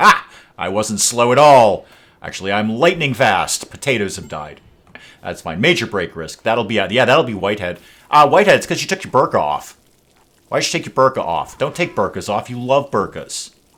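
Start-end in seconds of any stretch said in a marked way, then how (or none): 0.0-4.6 loud, sudden snap, as if startled awake. Imagining a slow colonist suddenly revealing himself: imitating Kirk snapping out of slowness. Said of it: "he'll suddenly snap out and be like".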